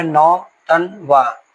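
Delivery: नौ तन वा slowly, in three distinct beats; syllable by syllable. Shown as a demonstration. Teacher showing how the word splits, slow separate syllables. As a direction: separate नौ, तन and वा clearly. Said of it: "इस case में आप लोग पहले spelling नौ का".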